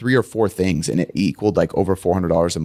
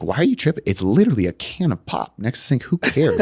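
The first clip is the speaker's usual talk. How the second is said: high, indignant why are you tripping; exasperated retort; 4 semitones higher than usual. Retold or imitated. Husband snapping back at his wife over the can, indignant and high. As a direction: push back at her, incredulous and raised.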